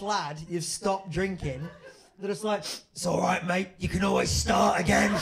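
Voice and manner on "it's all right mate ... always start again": hearty mock consolation building to a shout; rowdy British lad. British lad to mate who stopped drinking, loudly encouraging. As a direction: get louder, ending in a laddish yell.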